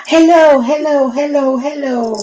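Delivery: a playful take on Messi greeting; Messi impression. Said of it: "haciendo hello y luego copiando a Messi". (imitando a Messi)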